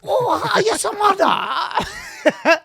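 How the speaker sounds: very high, loud wail in mock Asian accent; hammed-up Asian-accent shriek. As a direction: stretch it out slowly in a cartoon Asian accent. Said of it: "in a racist Asian accent".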